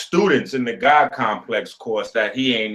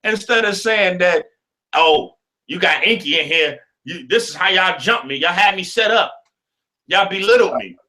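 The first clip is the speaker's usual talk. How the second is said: excited high rant; 7 semitones higher than usual. Real, not acted. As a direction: rant it up high in mock outrage.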